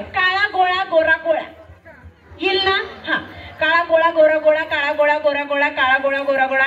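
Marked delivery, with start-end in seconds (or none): 0.0-1.4 tongue twister demo. Shown as a demonstration. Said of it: "आता सोपं आहे". 3.6-6.6 rapid repetition. Shown as a demonstration. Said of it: "जास्तीत जास्त वेळा म्हणायचे".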